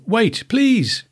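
high cub voice calling after her; high little bear, pleading. Acted. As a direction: call out high like a small cub. Little Bear chasing Goldilocks.

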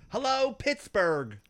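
slow, high, dazed greeting; doped-up singer. Retold or imitated. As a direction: drawl it out like you're stoned. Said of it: "She was so doped up".

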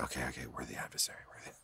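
fast, barely audible reluctant mumble; grudging whisper. Retold or imitated. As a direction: mumble it just to get it over with. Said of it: "She's like".

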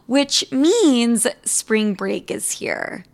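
a hint of a soft podcast ad read. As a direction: read the sponsor spot lightly. Host reads sponsor ad.

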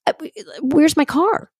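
mock disbelief at the missing car; baffled asking. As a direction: drag it out, lost and confused. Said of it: "I'm like".

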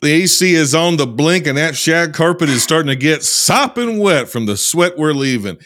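put-on Southern US accent; Southern drawl accent. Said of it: "I'm working on this accent".

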